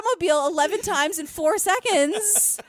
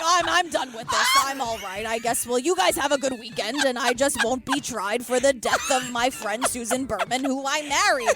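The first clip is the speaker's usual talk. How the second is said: imitating Robert Durst; 4 semitones lower than usual. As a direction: wave it all off breezily. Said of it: "He's like".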